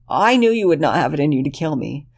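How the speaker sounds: put-on high, pleading young man's voice; desperate Lexington. Lexington relieved.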